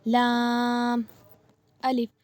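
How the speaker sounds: लाम and अलिफ said as two separate letters; लाम, pause, अलिफ. Shown as a demonstration. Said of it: "जैसे". (लाम और अलिफ अलग-अलग पढ़ें)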